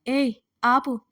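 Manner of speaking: mildly annoyed command; exasperated narrated outburst; irritated. A narrator's reading. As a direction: cut him off with some irritation. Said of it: "అతని మీదే విసుక్కుని".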